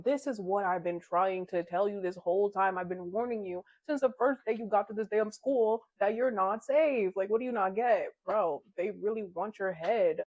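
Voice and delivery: urgent, insistent retelling of a warning; worked-up, emphatic telling-off; exasperated warning. Acted. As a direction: build in exasperation, pushing to get through. Character urgently warns, exasperated, after attack.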